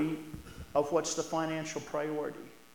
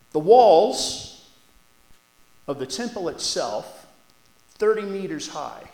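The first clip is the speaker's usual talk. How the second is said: awed description; 3 semitones higher, 12 dB louder, slower than usual. Real, not acted. Awed description of temple size.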